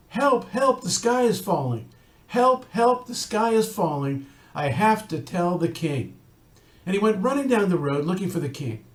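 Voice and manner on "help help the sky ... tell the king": a hint of a chick crying for help; panicky little chicken. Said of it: "So he said".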